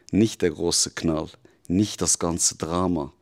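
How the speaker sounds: the devil accusing, firm and insistent; a lightly voiced devil pressing the truth on you; intense devil. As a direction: drive each image home like a verdict.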